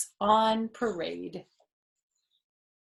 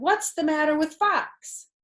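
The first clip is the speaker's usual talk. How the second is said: doctor's question; 8 semitones higher, 5 dB louder than usual. Acted. Doctor asking.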